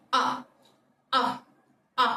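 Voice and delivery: "ஆ" as a broad open-mouthed vowel; wide-open O sound. Shown as a demonstration. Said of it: "ப்ராடரா open பண்ணி ஆ". (வாயை நன்றாகத் திறந்து "ஆ")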